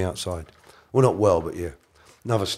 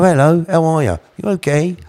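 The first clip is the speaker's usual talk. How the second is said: high-pitched, surprising little voice; Ronnie and Reggie impression; 6 semitones higher than usual. The twins saying hello, high-voiced impression. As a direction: mimic an unexpectedly high, polite greeting. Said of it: "you won't believe it's their voices".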